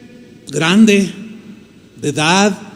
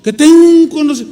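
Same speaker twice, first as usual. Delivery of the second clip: higher, mock-indignant theologian; indignant scorn; 9 semitones higher, 4 dB louder than usual. Proud theologian scoffing at the young pastor, mock indignant. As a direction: puff up like an offended scholar. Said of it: "Como diciendo".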